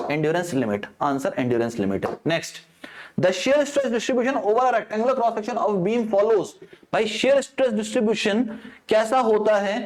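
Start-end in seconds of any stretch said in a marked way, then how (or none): 3.2-6.5 slow, deliberate exam reading; question read-out. Acted. Teacher reading an exam question to students, slow and deliberate. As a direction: read each word of the question out slowly.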